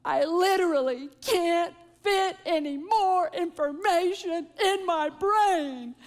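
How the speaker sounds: a hint of a crying teenage girl; sobbing teen. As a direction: imitate her daughter's big sob, stretching brain. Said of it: "sobbing, like, big".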